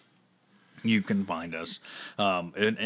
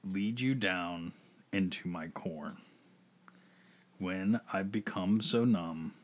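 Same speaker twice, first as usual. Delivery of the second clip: sultry perfume ad; 3 dB quieter than usual. Shown as a demonstration. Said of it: "read the lyrics in my sultry voice".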